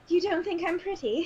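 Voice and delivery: lightly voiced coy zombie, rising; coy monster fishing for compliments; flirting zombie. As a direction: play the monster coy and wounded.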